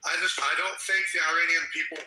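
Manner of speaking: losing his voice to a cold; hoarse, worn-out voice from a cold. Real, not acted. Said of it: "sorry, I'm kinda losing my voice, I got a cold".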